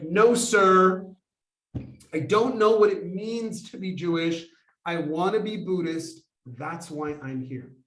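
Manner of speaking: retold snappy comeback, firm opening. Would-be Buddhist answers the monk back, a little snappy. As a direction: snap back a little, then settle down. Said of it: "a little snappy with him".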